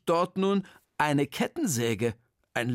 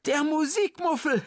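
much higher, loud call of alarm; 14 semitones higher, 3 dB louder than usual. Acted. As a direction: shout it out in alarm. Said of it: "rief Frau Hach".

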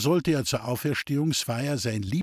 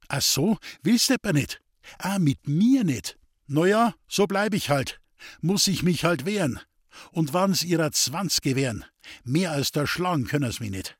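burning anger; 4 semitones higher than usual. Acted. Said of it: "mitten in seinem brennenden Zorn".

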